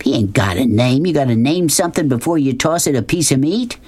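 a hint of a scoffing Southern boss; scornful Southern schemer. Narrator voices Beauchamp.

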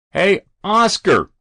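high, drawn-out loud holler; fireman's yell. A narrator's reading. Winded fireman to the boy on the roof, yelling. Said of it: "the winded fireman yelled".

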